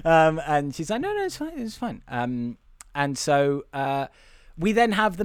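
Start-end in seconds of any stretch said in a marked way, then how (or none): 1.0-2.0 high, soft mock reassurance; imitated backing off. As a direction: back off in a small high voice. Voicing woman backing off.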